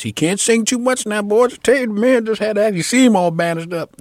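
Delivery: high, loud explaining to a crowd; imitated loud announcement. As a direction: call it out over the room. Retold announcement to crowd of locals.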